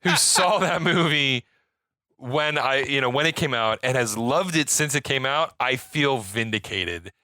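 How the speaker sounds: tipsy, loose and rambling; a few drinks in, meandering. Real, not acted. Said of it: "I'm very drunk right now".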